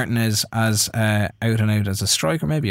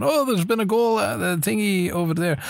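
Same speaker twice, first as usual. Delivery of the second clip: Andy Gray; 7 semitones higher than usual. Retold or imitated. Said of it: "like Andy Gray coming in".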